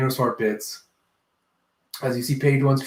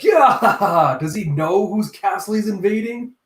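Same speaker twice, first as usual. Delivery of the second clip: mock jeering laugh; 6 semitones higher, 4 dB louder than usual. Minions mocking the intruder.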